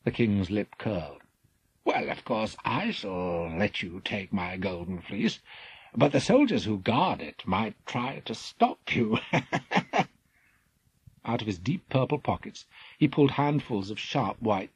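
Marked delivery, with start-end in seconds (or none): 1.8-9.2 a touch of sly mockery; sneering. Scheming king taunting Jason, sneering. 9.2-10.0 higher sly evil chuckle; villain's laugh. Acted. Scheming king mocking Jason, evil laugh.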